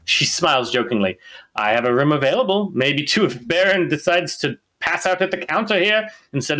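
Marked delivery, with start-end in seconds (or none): 1.6-6.6 dwarf barkeep voice. Acted. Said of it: "I gotta get her voice".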